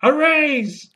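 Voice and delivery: high-pitched parrot call; squawking parrot. Acted. Parrot interrupts a performance review from the bag, squawking parrot. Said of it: "and the parrot".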